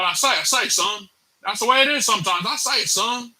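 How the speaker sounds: lightly voiced Southern rooster; Foghorn Leghorn voice. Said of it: "sounding like Foghorn Leghorn".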